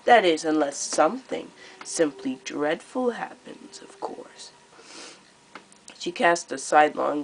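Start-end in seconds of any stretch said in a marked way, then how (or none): 0.0-4.5 high, louder, theatrically sweet menace; gleeful cruel queen. Acted. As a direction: purr out the threat like a delighted tyrant. Queen Scarlet taunting the court.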